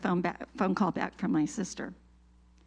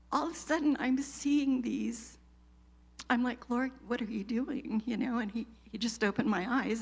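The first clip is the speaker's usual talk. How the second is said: close to tears; 4 semitones higher than usual. Real, not acted. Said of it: "I'm gonna cry".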